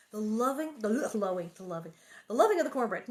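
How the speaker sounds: "loving" said with a clear v, misread for "lowing". Shown as a demonstration. Reading aloud, slips and says "loving" instead of lowing. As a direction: reads "loving" with a v sound by mistake. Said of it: "No, the lowing of the cattle herds".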